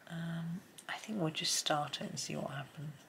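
quick soft whisper. Real, not acted. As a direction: whisper it under your breath. Whispered while colouring.

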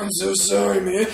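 low, apologetic mock Batman. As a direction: say sorry in a put-on low Batman voice. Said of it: "You're talking like Batman?".

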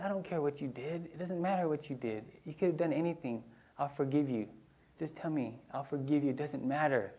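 put-on soft, reassuring boy's voice; gentle forgiveness. Brother gently forgiving his sister at bedtime. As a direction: reassure her tenderly. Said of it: "he said".

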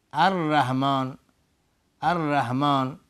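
slow «الرحمن» with plain h; wrong ha. Shown as a demonstration. Teacher shows what the mistake turns into, wrong ha.

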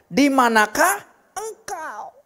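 slow, high, loud call; God calling to Adam, slowly and loudly. Acted.

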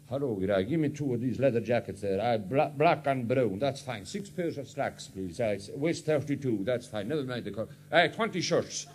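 a hint of a young Highland lad ordering everything in sight; Highland lad buying clothes. Young Highlander orders clothes from the sales girl, lightly voiced. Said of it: "he'll go right up to the sales girl and he'll say".

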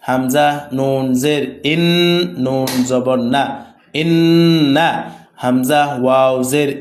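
slow, measured syllable-by-syllable recitation; spelling drill. Shown as a demonstration. Teacher modelling Arabic letter spelling for students, measured drill recitation. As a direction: recite it as a steady drill, sounds drawn out.

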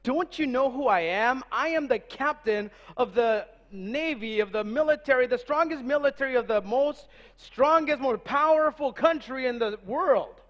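a hint of an annoyed captain pulling rank; lightly voiced irritated officer; mildly upset captain. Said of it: "a little upset now".

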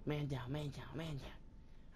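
breathy whispered callout. Real, not acted. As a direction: whisper it under your breath.

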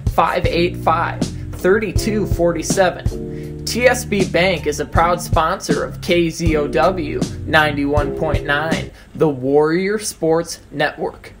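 projected radio commercial delivery; scripted advertisement voice; sponsor ad read. Acted. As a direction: sell the local sponsor clearly.

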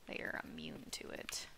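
whispering. Real, not acted. Whispered aside.

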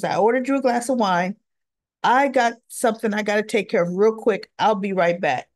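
quick, rushed retelling of the line; fast and brisk, with somewhere to be; hurried. Retold or imitated. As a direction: rattle it off in a hurry. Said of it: "'cause Anna's wine was".

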